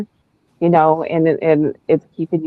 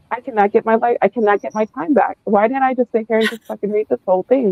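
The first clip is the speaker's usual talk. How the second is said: raised a clear step higher, mock despair over lost time; retold exasperation; 5 semitones higher than usual. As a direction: lament the wasted hours in a half-mocking way. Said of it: "I'm like".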